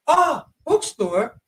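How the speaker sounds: high, slow puzzled question; a Japanese clerk guessing, surprised and high; mock surprised question. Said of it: "Then they might say".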